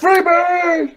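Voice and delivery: high whooping yell; party shout. Acted. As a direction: whoop it like a rock fan. Mock party-guy shout.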